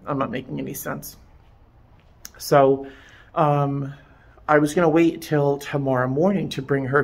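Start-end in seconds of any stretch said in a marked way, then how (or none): 0.1-1.2 deflated rush. Real, not acted.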